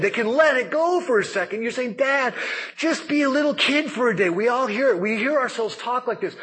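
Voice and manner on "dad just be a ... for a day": put-on high pleading little-kid voice; higher, eager kid voice. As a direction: beg dad like a kid at Disneyland.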